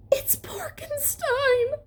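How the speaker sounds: high breathless whisper of fear; frightened whisper. A narrator's reading. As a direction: gasp the name in terror. Scientist cries out in fright.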